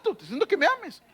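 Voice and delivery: firm, quick divine command; commanding God. Acted. Preacher voicing God with firm command. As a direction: demand it with authority.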